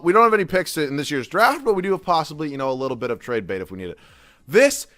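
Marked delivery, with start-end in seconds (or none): 4.5-4.9 slow, drawn-out shocked curse; can't believe what you're seeing, drag it out; high, slow stunned swearing; stunned disbelief. Real, not acted. Shocked at player option screen.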